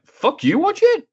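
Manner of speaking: sudden high mock outburst; hammed-up wrestler yell. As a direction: fire it back like a jokey threat. Retold wrestler snapping back.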